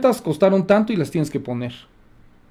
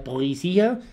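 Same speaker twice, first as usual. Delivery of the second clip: "policía" with a fake French sound; mockingly Frenchify the word "policía"; mock French accent; 5 dB quieter than usual. Shown as a demonstration. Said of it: "Nada más faltó que hablar en francés". (acento francés de burla)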